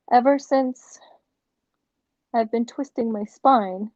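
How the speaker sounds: upbeat infomercial testimonial. Real, not acted. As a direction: sell it like a TV ad pitch. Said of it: "I sound like a infomercial".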